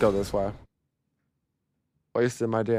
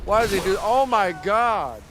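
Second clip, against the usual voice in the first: real frantic outrage at the damage; panicked disbelief; 7 semitones higher than usual. Real, not acted. Getting wrecked by a boss.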